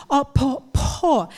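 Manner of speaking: "Op, po, po" with the lips closing hard on each P; slow P drill; syllable drill. Shown as a demonstration. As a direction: build the word "Op, po, po" syllable by syllable, lips together. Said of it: "lips will come together to make the P sound".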